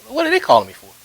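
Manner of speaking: sudden high, loud puzzled question; wondering aloud who on earth is calling; puzzled surprise. Retold or imitated. Musician recalling his thoughts as the phone rang, puzzled and high.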